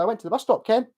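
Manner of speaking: Scottish lilt with "Ken" tagged on the end; imitated local Scottish tag; local Scottish accent. Shown as a demonstration. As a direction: tack a throwaway "Ken" onto a Scottish sentence. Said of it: "you can say Ken at the end".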